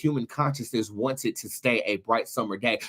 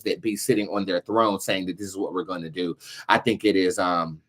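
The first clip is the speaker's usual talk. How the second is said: somber prayer; 5 semitones lower than usual. Real, not acted. Solemn prayers for war victims.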